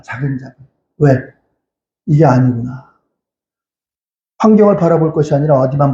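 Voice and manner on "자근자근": 자근자근 repeated much softer and lower; quiet echo. Real, not acted. Preacher echoing his warning to the congregation, quiet echo. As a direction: drop 자근자근 to a low, soft echo. Preacher echoes the word softly.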